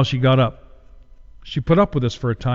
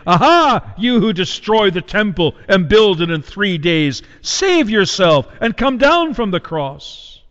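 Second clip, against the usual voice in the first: mocking jeer; 4 semitones higher than usual. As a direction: scoff at him as you pass. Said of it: "blasphemed him, wagging their heads".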